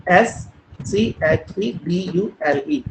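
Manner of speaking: letters spelled out slowly; slow letter-by-letter spelling. Shown as a demonstration. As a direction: spell each letter clearly for the class. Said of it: "मैं लिख रहा हूँ".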